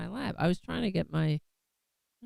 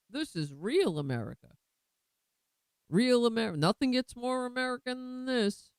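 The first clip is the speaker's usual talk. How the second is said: mocking Republican quote; 4 semitones higher than usual. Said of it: "Republicans do it all the time, saying".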